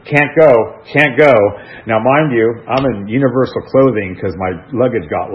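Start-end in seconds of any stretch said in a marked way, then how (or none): 0.1-1.3 blurted high and loud in alarm; sudden panic, backing out fast; loud, rattled refusal; panicked. Retold or imitated. Panics on hearing urinalysis.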